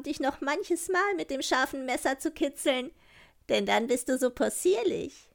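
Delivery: ein wenig höher, keck zum Rentier; Räubermädchen. Acted. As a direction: frech und verspielt, dann bestimmt. (Räubermädchen befiehlt dem Rentier, leicht gespielt)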